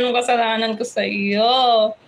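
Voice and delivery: mock voice of the angry one, not too heavy; put-on angry voice. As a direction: voice the grumpy commenter, half-joking. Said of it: "Sino yung nagagalit na yun?".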